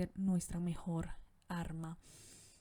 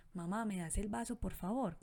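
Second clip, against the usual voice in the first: put-on child's words in your voice. Shown as a demonstration. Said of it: "como si fuera él el que está hablando, pero con tu voz".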